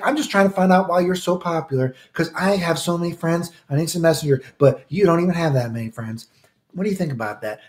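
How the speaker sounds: a hint of a bragging churchy kid; smug Church Boy. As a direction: brag like a know-it-all kid. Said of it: "He's like".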